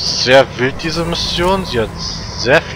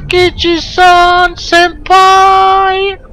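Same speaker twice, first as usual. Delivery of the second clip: high, drawn-out squeal of senpai; excited anime fan; 8 dB louder, much slower than usual. Pretend. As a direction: gush like an overexcited anime fan. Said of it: "Diese Japaneses".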